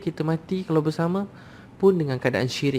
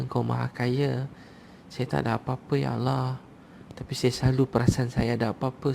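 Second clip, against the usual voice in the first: humble prayer. Acted. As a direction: beg forgiveness like a humble servant. Preacher leads a humble prayer.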